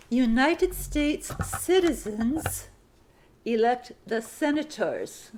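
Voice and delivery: "United" drawn out, slow phrasing; slow dictation, word by word. Shown as a demonstration. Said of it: "Sentence fifty-three".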